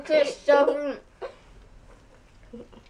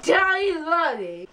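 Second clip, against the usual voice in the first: mouth full. Real, not acted. Marshmallows stuffed in mouth.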